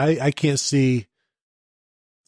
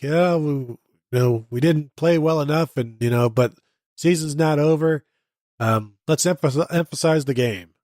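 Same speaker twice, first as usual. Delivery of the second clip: mock Harbaugh presser. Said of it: "just as emphatic as he is after every single speech".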